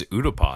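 Utapau with the last syllable rhyming with "spa"; final vowel of Utapau as in "father"; Utapau ending in "pah". Shown as a demonstration. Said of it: "Obi-Wan says Utapau".

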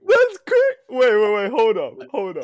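loud excited high shout; blurting it out loud into the mic. Real, not acted. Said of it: "stop shouting into the mic".

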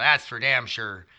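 slow, weighted "That's for damn sure."; serious grandpa catchphrase. Retold or imitated. Grandpa being really serious, slow and emphatic. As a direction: lean on "damn" like you mean it. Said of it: "if he was really serious".

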